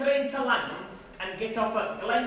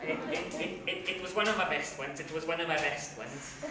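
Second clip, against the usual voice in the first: lower, softer wounded insistence; hurt and deflated; 7 semitones lower, 6 dB quieter than usual. Acted. Comedian defending his joke, deflated and soft. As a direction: mumble the defence, crestfallen.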